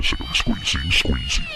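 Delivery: high strained squeezing voice; pitch-shifted squeak, half joking; mock strained squeak. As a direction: squeak it out like you're being squeezed. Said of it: "Let me see what happens".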